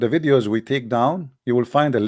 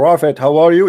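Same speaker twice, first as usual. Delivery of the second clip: brash, unsubdued, loud, full-voiced, too loud; 4 semitones higher, 6 dB louder than usual. Teaching that one must not speak loud to the messenger, showing the wrong way: too loud. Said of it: "If you say".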